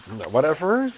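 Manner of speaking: hoarse, losing voice; strained, worn-out hoarse voice. Real, not acted. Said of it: "I'm losing my voice".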